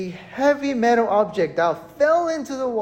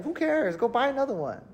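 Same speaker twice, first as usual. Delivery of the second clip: careless youth; 4 semitones higher, 5 dB quieter, faster than usual. Retold or imitated. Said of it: "the younger folk here".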